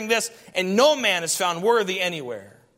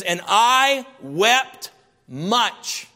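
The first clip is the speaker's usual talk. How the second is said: grieving slowly; 3 semitones higher, 3 dB louder, much slower than usual. Acted. Reading John's grief.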